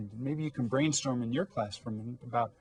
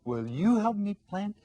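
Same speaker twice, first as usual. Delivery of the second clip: much higher, slow, sing-song hen plea; storybook hen asking the dog; little hen pleading; 9 semitones higher, slower than usual. Acted. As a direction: draw out the request like a coaxing hen.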